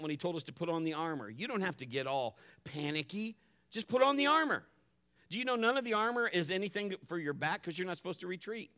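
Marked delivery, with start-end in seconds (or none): 3.7-6.5 high, loud preacher's command; forceful preaching cry; emphatic exhortation. Real, not acted. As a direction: drive it home with raised voice.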